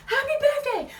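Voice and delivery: high, excited shouted greeting; imitated crowd cheer. Passers-by answering birthday girl, high imitated cheer.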